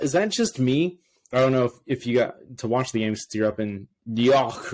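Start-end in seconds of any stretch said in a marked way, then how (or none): 4.0-4.7 put-on New York accent with "York" as "Yawk"; mock New York accent. Teasing a co-host who lives there, mock New York accent. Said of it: "I tried to make fun of the New York accent".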